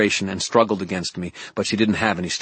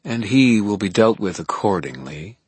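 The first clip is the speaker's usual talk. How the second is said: purring; 4 semitones higher, 5 dB louder than usual. Acted. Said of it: "Mab purred".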